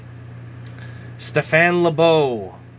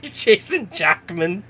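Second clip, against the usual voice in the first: slow, giggling misreading of the name "Jackman"; laughing misread; 4 semitones higher, slower than usual. Real, not acted. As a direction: stumble over "Jackman" through a laugh.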